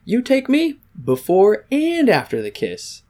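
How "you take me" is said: high mock Russian woman accent. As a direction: imitate her Russian accent, pitched up. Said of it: "She says".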